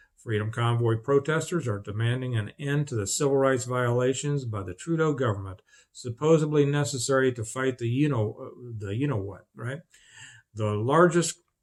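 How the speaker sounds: ordinary talk, nothing marked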